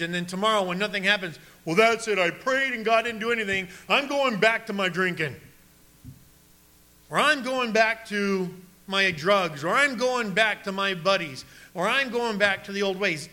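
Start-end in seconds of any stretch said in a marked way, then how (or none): 1.6-13.3 lightly acted, raised-voice giving up; mock fed-up quitter. Disappointed believer quits after unanswered prayer, mock fed-up. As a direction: complain like someone throwing in the towel.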